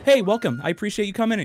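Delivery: mock welcome. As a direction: switch to a sweet, welcoming host act. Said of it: "I'm like".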